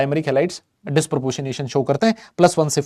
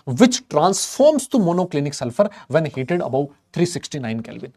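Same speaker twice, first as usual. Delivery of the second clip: slow textbook reading; much slower than usual. Real, not acted. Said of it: "reading textbook line".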